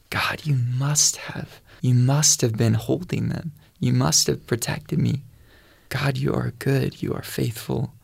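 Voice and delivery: hushed, awed whisper of thanks. Retold or imitated. Recalling the rescue, whispered to God in awe. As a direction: breathe it to God in wonder. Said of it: "I just was in awe".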